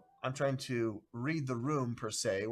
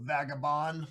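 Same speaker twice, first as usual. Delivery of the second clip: southern drawl. Acted. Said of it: "I've got a southern drawl".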